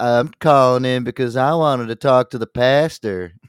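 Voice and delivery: put-on, folksy, farmer-style country caller voice. Showing the voice he does when calling in, in his put-on caller voice. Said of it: "maybe when I do my voice".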